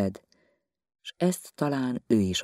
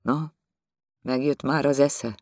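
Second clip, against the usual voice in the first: scolding but conciliatory; 4 semitones higher than usual. Acted. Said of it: "korholó, de békülékeny hangon".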